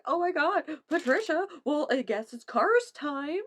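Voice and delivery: put-on high, loud little girl voice; toddler voice. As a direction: mimic an excited toddler. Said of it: "She was like".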